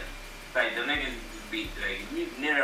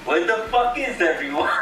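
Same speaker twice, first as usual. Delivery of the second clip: raised-pitch mock Irish voice; imitated Irish accent; 6 semitones higher, 4 dB louder than usual. Fan quoting a movie line that cracked him up, Irish accent. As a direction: quote it in a playful Irish accent. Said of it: "He said that shit in the Irish voice".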